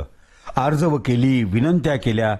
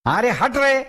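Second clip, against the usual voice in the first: dismissive Tatya; 9 semitones higher, slower than usual. Acted.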